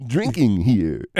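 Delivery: a hint of Woody Allen, hesitant and stammering; nervous stammering New Yorker, lightly done; faint Woody Allen impression. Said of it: "the Woody Allen".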